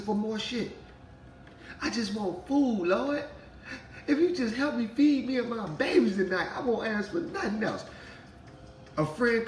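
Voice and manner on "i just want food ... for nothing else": mock prayer.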